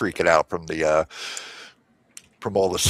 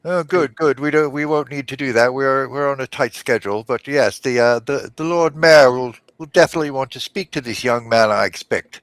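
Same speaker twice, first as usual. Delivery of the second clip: gnome voice; 5 semitones higher than usual. Acted. Gnome voice continues.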